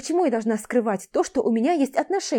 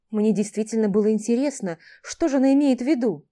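usual speaking voice

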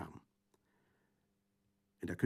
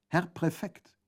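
loud raised call to the prefect; 9 semitones higher, 6 dB louder, slower than usual. Acted. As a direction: call him out, pitched high. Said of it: "rief Colomba". (laut rufend, höher)

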